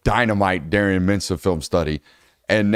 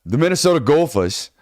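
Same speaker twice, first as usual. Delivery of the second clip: put-on Minnesota accent again; 3 semitones higher than usual. Host doubling down on the accent for his co-hosts, laughing. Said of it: "Why'd you double down?".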